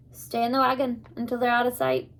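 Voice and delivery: put-on a light, amateur Scottish accent for the old man; old Abner steadies the hidden children in a mild Scottish accent. Abner, lightly Scottish, tells them to stay in the wagon. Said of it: "not very fluent in Scottish accents".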